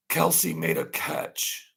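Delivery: high, slow, drawn-out announcer call; slow, high mock play-by-play; slow mock sportscaster call. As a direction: stretch the call out like a replay. Mocking TV coverage of Kelsey.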